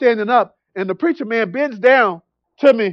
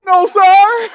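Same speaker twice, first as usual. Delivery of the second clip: high, louder imitation of crying; mock tearful; 9 semitones higher, 5 dB louder than usual. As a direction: play up a tearful, high-pitched reply. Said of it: "So I'm, I'm crying".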